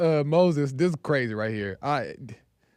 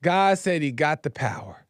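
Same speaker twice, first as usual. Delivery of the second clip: ordinary talk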